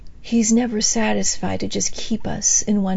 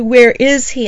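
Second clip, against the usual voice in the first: longing cry; 3 semitones higher, 8 dB louder than usual. Acted. Bride searching for her beloved.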